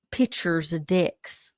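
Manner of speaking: slow "pitchers" for "pictures"; imitated Southern "pictures", k dropped and unhurried; Southern-accented "pictures". Relishing a friend's phrase, "pictures" as slow Southern "pitchers". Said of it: "charming Southern accent".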